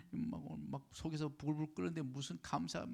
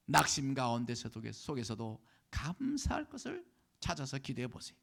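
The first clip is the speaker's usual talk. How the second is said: raised voice, high and emphatic openings; exhorting preaching; 7 semitones higher, 9 dB louder than usual. Real, not acted. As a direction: urge the congregation forcefully, phrase by phrase. Exhorts congregation. (간곡하게 목소리 높여 권면하는 설교)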